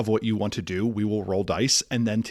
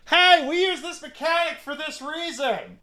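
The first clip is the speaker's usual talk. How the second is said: mock developer voice; 3 dB louder than usual. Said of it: "the developer doesn't say".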